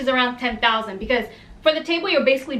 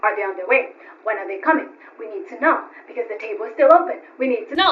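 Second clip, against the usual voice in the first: low, insistent mimicry of a boss; pestering boss impression; 3 semitones lower than usual. Club CEO chasing the guests' arrival, mock-insistent. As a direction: fire off separate demands, imitating the boss. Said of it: "the C E O was constantly like".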